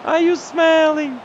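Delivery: slow, anxious moan at the screen; anxious groan. Real, not acted. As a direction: stretch it out in dread. Worried as the defender arrives.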